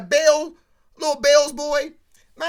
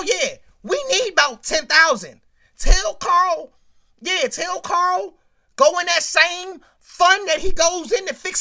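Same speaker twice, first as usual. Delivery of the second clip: Tracy's angry demand; 4 dB louder than usual. Retold or imitated. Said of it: "Tracy Spencer got that boy in that limo and was like".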